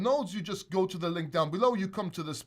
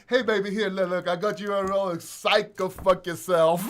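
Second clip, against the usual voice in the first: mock prankster; 5 dB louder than usual. Fake gift prank voiced.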